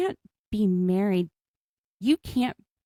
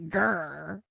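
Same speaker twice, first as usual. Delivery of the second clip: tiger growl. Retold or imitated. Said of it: "we're doing, like, a tiger growl".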